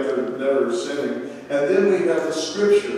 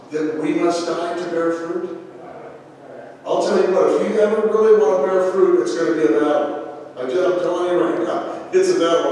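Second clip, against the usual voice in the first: fervent preaching; 3 semitones higher than usual. Real, not acted. Pastor exhorts congregation about battle.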